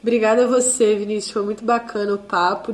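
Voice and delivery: hoarse voice from laryngitis; croaky voice still recovering from laryngitis; duck voice. Real, not acted. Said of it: "Desculpa a minha voz de pato".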